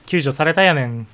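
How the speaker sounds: joking fake Kansai-ben, lightly done; bad Kansai dialect. Streamer teasing chat in deliberately bad Kansai dialect. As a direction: put on a clumsy Kansai dialect for a laugh. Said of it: "さっきのは下手な関西弁です".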